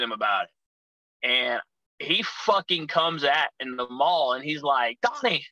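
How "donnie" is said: high-pitched mock yell of a name; retold yell. Perez coming at his friend in public, imitated yelling. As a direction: call it out sharply high, without real volume. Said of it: "yelling like that in public".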